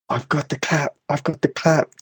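put-on thick northern English accent. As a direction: shout it in a broad northern accent. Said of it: "like, thick northern accent".

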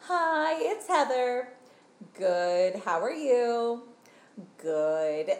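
high chirpy phone greeting; lightly voiced mom on phone; mom answering phone. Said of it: "she goes".

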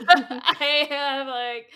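high, loud, drawn out through laughter; giddy real laugh in the words. Real, not acted. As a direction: gush helplessly while laughing. Gushing over favourite actor's voice.

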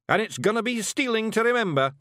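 yelled. Acted. Rob rallying the cheering Feagles, yelling. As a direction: rouse the crowd. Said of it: "Rob yelled".

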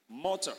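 "Mutter" with an American flap, MUH-der; American pronunciation. Shown as a demonstration. Preacher demonstrating American "Mutter", MUH-der. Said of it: "That's American pronunciation now".

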